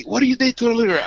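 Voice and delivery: fast, high, demanding cop's question; angry cop. Retold or imitated. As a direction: rattle off the accusation at speed. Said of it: "I remember that".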